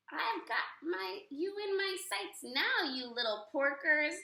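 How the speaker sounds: high, loud gloating witch; wicked witch taunting from above; cackling witch. Acted. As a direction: gloat down at the pigs. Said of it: "she cackled".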